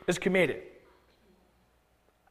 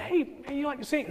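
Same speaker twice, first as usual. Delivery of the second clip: soft, higher-pitched invitation; gentle coaxing; 5 semitones higher, 9 dB quieter than usual. Acted. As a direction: play a careful, quiet nudge. Acted invitation to a quiet man.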